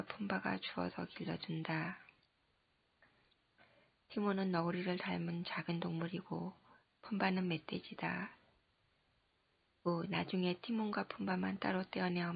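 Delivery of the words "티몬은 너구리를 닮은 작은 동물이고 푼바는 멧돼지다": usual speaking voice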